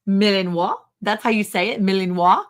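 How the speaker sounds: Malinois said the French way, ending in "wah", as a question; questioning pronunciation. Retold or imitated. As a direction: repeat "Malinois" carefully as mil-in-WAH, rising. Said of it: "And I say it just like that".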